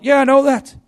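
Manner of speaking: high, loud knowing reply; cheeky girl. Retold or imitated. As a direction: toss it back brightly. Girl answers the policeman.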